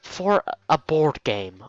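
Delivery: dragged out slowly, flat incredulity; slow deadpan disbelief. Acted. Hisao repeating to Misha in slow disbelief. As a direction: let the absurdity sink in.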